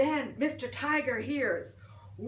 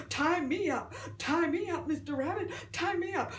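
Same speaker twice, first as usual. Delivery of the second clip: yelling; 2 semitones higher than usual. Acted. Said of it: "Mister Tiger yelled".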